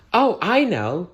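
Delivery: high, eager fairy blurting out. Acted. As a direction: jump in like an excited fairy.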